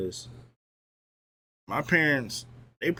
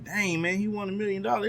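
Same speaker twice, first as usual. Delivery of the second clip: much higher, amazed parent voice; excited parents; 10 semitones higher than usual. Retold or imitated. Streamer imitating his parents, amazed and much higher. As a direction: play the proud parents gushing about the prize. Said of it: "they were like".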